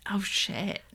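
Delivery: hushed, impressed whisper; whispered oh shit. Real, not acted. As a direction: breathe it out in awe. Reacting to pairing idea.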